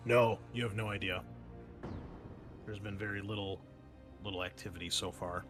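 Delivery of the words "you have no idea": ordinary talk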